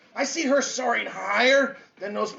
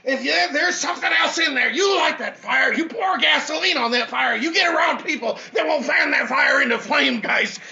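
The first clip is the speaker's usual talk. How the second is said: fired-up preaching; 2 semitones higher than usual. Acted. Speaker rallying his audience, fired-up preaching. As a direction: preach it to the crowd with fire. Motivational preaching at full force.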